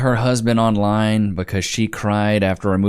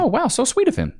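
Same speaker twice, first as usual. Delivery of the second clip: mock gushing. Commentator mocks with fake gushing.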